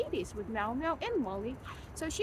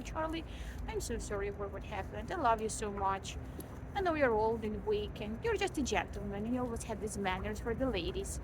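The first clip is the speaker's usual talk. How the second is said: sincere apology to the dog; 3 semitones lower than usual. Retold or imitated. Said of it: "speaking to him very sincerely".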